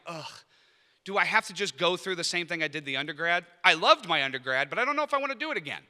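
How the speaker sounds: weary, reluctant whine, rising and rushed at the end; reluctant groan. Retold or imitated. Prospective student dreading a repeat of undergrad, reluctant groan. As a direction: sound like you dread doing it all over again. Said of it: "voice inflections".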